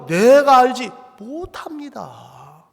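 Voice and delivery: loud, slow and drawn out; brazen loud denial. Acted. Cain lies to God about his brother, loudly and brazenly. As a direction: belt out the denial with bold confidence. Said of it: "가인도 큰 소리 빵빵 치는 거예요".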